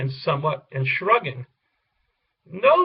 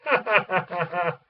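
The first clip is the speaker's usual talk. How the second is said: derisive laugh. Acted. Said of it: "The pigs laughed derisively".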